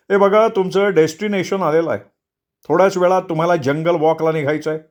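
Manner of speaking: brief the group like a tour leader; instructing tour leader. Acted. Tour leader explains the jungle walk to four friends, matter-of-fact.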